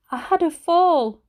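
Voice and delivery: put-on high, slow, croaky old lady voice; a frail grandmother in a hospital bed, slurring slightly; croaky old granny. A narrator's reading. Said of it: "Her voice was croaky and her speech a little slurred".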